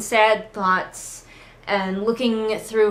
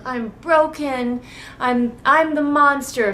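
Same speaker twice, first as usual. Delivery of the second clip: mock sad; 4 semitones higher, slower than usual. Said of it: "She's all sad".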